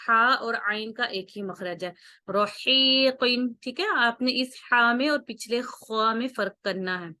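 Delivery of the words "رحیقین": رحیقین with a soft, breathy ح from mid-throat, slowly. Shown as a demonstration. Teacher shows the gentle ح, unlike the heavy خ. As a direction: let the ح in رحیقین come softly from the middle of the throat. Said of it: "نرمی سے پڑھا جاتا ہے".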